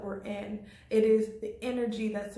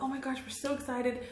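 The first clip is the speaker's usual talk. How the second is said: imitating others' excitement, higher pitched; mildly excited; 4 semitones higher than usual. Imitating people thrilled over who won president, mildly excited. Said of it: "someone's really excited".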